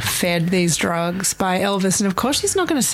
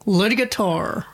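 "Lydia Tar" drawled with a Southern twang; Southern accent. Shown as a demonstration. Cohost testing the name in a Southern accent. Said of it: "in a southern accent".

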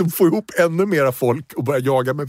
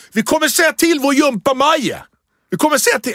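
pitched-up mock yell of tattling; tattling kids; 10 semitones higher than usual. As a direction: shout like kids running to the teacher. Kids threaten to tell teacher.

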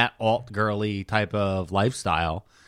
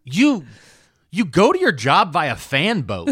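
higher, slow and incredulous; incredulous retort; 4 semitones higher, 4 dB louder, slower than usual. Retold or imitated. Mocking the swamp man's job, higher and incredulous. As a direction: lay the disbelief on slowly. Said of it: "And I was like".

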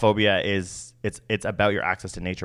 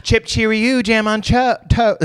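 high chirpy sing-song of a robin's call; robin song imitation; 13 semitones higher, 5 dB louder, slower than usual. Chirping the robin's tune to a friend. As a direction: pipe it high like a bird. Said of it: "Is that what they say?".

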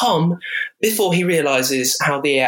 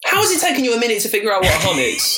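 incredulous; 5 semitones higher, faster than usual. Real, not acted. Mocking friend's confusion.

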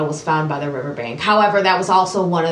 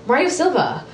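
hyped segment intro, higher; announcer voice; 6 semitones higher than usual. Pretend. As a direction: call it out like a show host.

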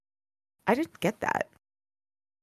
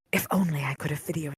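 whispering voice; 5 semitones lower, 10 dB quieter, faster than usual. Acted. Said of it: "came the whispering voice".

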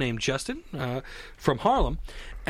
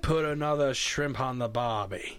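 a retry of the Australian line, near his usual pitch; second try at an Australian accent; 3 semitones lower than usual. Pretend. S0 retries the shrimp line after the Cockney slip. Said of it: "It wasn't even Australian".

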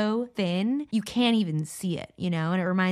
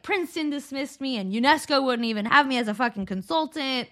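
self-pitying monologue, pitched a bit up; mock wallowing in grievance; woe-is-me; 4 semitones higher than usual. Einstein complaining at his pity party, mock woe-is-me. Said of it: "woe is me".

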